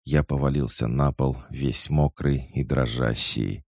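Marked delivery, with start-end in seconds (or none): none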